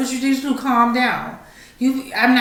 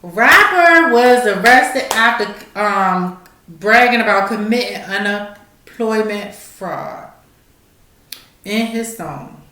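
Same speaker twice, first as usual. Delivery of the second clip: slow deliberate reread; slower than usual. Shown as a demonstration. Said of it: "I'ma repeat this stupid shit again".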